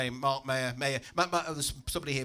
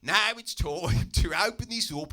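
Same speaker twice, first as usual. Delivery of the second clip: jumped-up ex-cop; slower than usual. Acted. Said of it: "jumped up ex-traffic cop".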